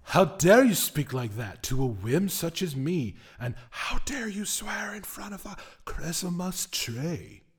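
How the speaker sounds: outraged spirit scolding; offended whim. Acted. The whim scolds his captive for swearing, indignant.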